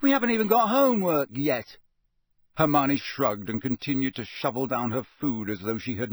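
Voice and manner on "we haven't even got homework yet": loud incredulous protest; can't believe she's serious; disbelief. A narrator's reading. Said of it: "said Ron in disbelief".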